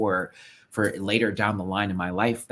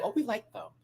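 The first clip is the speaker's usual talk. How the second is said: imitating guests; 12 semitones higher, 4 dB quieter than usual. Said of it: "was like".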